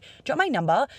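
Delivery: direct, confident ask; just ask it outright; plain confident question; straight shooting. Retold or imitated. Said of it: "straight shooting".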